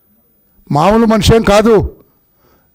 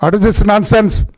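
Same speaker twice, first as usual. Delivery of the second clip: mock scolding; 2 semitones lower than usual. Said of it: "ఉండి bail మీద వస్తే".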